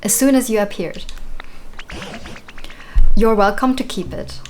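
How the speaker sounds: put-on lightly British old character voice; mild British accent for a game character; British accent for Tangrowth. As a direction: read it with a hint of a British accent. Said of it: "I imagine Tangrowth to have, like, a British accent".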